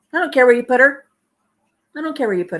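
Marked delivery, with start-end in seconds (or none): 0.1-1.1 indignant mock quote. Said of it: "How awful is that".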